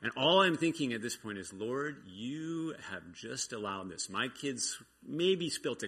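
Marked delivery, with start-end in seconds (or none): 1.5-4.1 softer and slow, deflated; a hint of weary grumbling; resigned complaint. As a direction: sigh it out to the Lord. Frustrated thought aimed at God.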